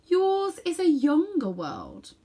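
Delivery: slow, savouring queen's remark; greedy queen. A narrator's reading. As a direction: relish each word like a hungry queen. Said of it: "she said".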